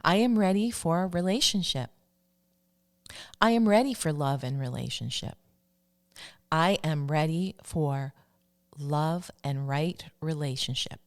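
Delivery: measured, deliberate affirmation; spaced-out self-affirmation, each repeat its own statement. Shown as a demonstration. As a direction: recite it firmly for listeners to repeat. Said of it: "affirmation that you can say to yourself".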